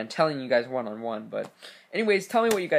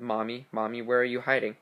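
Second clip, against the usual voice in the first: muffled creepy call. Acted. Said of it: "a muffled".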